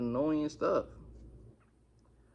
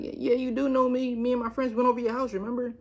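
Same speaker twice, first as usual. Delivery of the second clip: high-pitched mimicry of a pushy girl; mock insistent girl voice; imitating insistent girl; 9 semitones higher than usual. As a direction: insist in a raised, put-on pitch. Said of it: "Now, she's saying this loud".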